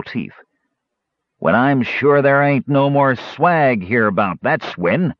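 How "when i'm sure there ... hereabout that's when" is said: gruff bandit leader. Acted. Bandit leader boasting of swag.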